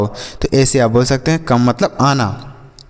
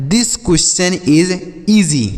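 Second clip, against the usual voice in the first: slow model sentence; much slower than usual. Shown as a demonstration. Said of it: "ऐसे आप इसे भी बोल सकते हैं".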